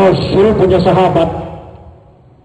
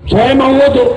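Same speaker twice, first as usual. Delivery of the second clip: imperious announcement; 8 semitones higher than usual. Acted. Guest demands ablution.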